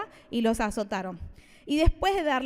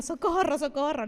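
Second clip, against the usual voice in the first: mock cry for help; 2 semitones higher than usual. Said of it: "les prometo que mi carta sería".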